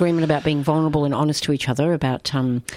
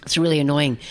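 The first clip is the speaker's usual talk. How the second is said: slurping; 2 semitones lower than usual. Real, not acted. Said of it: "I'm sorry I'm slurping".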